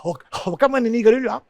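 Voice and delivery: quick, lightly voiced nagging parent; hammed-up hypocritical parent warning about smoking; mock parent scolding. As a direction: wag a finger like a smoking parent. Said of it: "Yung ba nga sabi".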